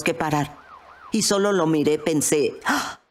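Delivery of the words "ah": acted gasp. Gasp on seeing the policeman.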